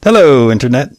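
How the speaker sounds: lightly voiced show opener; borrowed catchphrase. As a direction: try on a friend's catchphrase. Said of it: "that's Adam's line".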